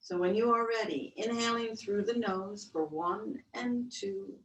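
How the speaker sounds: guided breath count. Acted.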